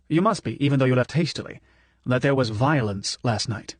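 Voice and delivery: a hint of a grave, fatherly professor; earnest old professor. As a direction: Prof urging Manny to hide. Prof warns Manny.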